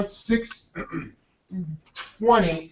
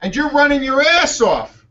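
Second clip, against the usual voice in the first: amused teasing; 6 semitones higher than usual. Retold or imitated. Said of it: "He says".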